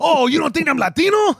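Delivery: mock-offended Mexican-American comedian bit with a broad accent; bad George Lopez. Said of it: "really bad George Lopez from the nineties".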